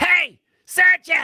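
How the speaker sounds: loud drawn-out high shout. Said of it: "she goes".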